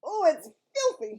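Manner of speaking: loud, high disgusted sputter; a giant's loud sputtering complaint. Acted. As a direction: spit the words out in disgust. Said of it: "he sputtered".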